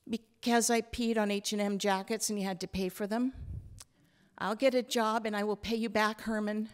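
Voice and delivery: a small granddaughter, a bit scared; child Hazel voice. Acted.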